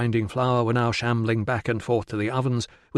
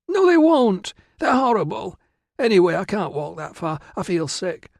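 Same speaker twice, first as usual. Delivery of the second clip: whining protest; 8 semitones higher than usual. Acted. Virana makes excuses to avoid her family, whining. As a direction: refuse like a whiny girl, very high at first.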